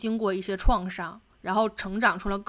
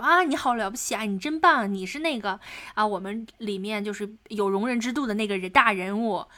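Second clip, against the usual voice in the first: sarcastic praise. Retold or imitated. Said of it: "他又嘲讽的说".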